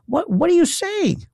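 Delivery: high-pitched incredulous sputter; flustered disbelief. Acted. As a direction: stumble into a high, baffled question. Flustered reply to absurd claim.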